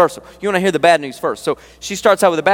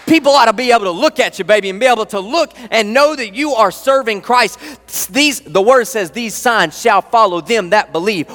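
fired-up preaching; 3 semitones higher than usual. Real, not acted. Preacher urging the church to bigger faith, fired up. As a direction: drive it at them, fired up. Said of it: "I'm sorry, I'm fired up".

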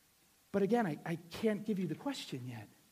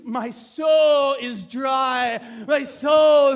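loud, long-drawn melodramatic cry; hammed-up shouted lament; mock anguished declaration; 4 semitones higher, 16 dB louder, much slower than usual. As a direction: wail it out slowly like overblown poetry. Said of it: "no, we don't talk like that".

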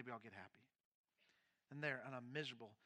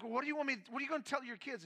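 put-on higher, urgent plea about the kids; pleading wife; 8 semitones higher, 4 dB louder, faster than usual. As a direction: make him think of the kids.

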